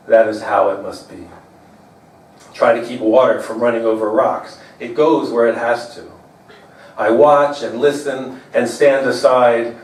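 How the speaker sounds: measured, understated poem delivery; poetry reading. Acted. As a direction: read a love poem to an audience, pausing between lines. Reads own poem to audience.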